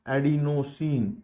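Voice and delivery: एडिनोसिन stretched out slowly, each syllable clear; slow drilled term. Shown as a demonstration. Teacher drilling the new term for students, slow and clear. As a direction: spell out एडिनोसिन slowly for the class. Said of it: "क्या बोलेंगे इसको?".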